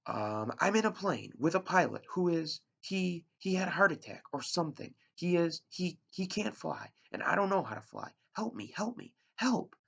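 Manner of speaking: high, loud frightened pleading; desperate, climbing help me; panicked plea. Acted. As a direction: beg for help, voice rising to a cry. Boy pleads for help over radio.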